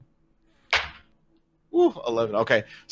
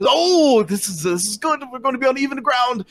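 higher-pitched, lively challenger; excited opponent; 11 semitones higher than usual. Acted. Game master voices a keen contest opponent, excited.

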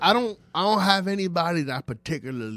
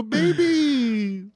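put-on high, slow girly voice; high mock girlfriend voice; girlfriend impression; 10 semitones higher, slower than usual.

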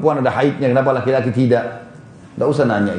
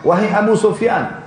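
higher, slow call across a distance; calling out loudly; 5 semitones higher than usual. Retold or imitated. Abbas calls to Abu Sufyan from afar, a mild retold shout. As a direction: stretch the name out to reach him far off. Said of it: "teriak dengan keras".

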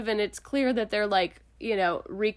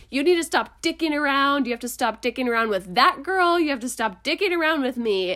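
mock-heated scolding, louder; retold angry outburst; 4 semitones higher, 4 dB louder than usual. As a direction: snap at her like a fed-up friend. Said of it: "this huge explosion".

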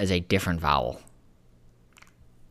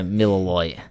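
put-on Australian accent; slower than usual. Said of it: "when you say it in an Australian accent".

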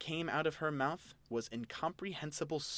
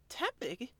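confused question; 12 semitones higher than usual. Acted. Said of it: "Elaine asked".

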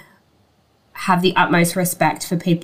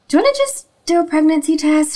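friend's voice; 11 semitones higher, faster than usual. Retold or imitated. Friend voiced in retold story.

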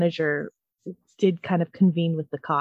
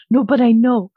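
mock yell; 3 semitones higher, 8 dB louder than usual. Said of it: "trying to yell at my neighbor".

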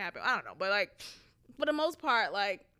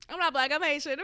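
petty; 4 semitones higher, faster than usual. Retold or imitated. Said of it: "I would do it kinda petty".

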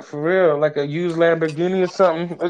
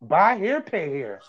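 car-lot slogan; slower than usual. Pretend. Adding a slogan to the fake ad, pitchman voice. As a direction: chant it like a dealership tagline.

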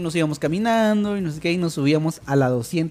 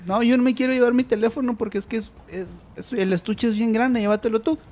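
higher-pitched imitation of a girlfriend; girlfriend quoted; 5 semitones higher than usual. Girlfriend handing over her phone to the storyteller, lightly imitated. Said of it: "Me dice".

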